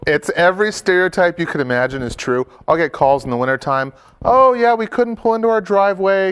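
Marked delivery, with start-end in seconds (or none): 4.2-6.3 exaggerated southern mom. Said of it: "I'm kinda exaggerating that a little bit".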